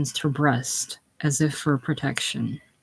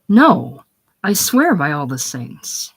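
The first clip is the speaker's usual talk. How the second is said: loud protest; 5 dB louder than usual. Acted. Father denying, protesting.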